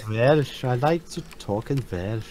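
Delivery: lightly put-on Welsh accent; dubious mock Welsh accent; attempted Welsh accent. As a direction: have a rough go at a Welsh accent. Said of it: "is that Welsh?".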